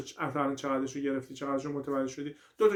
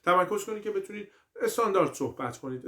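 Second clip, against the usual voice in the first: ordinary delivery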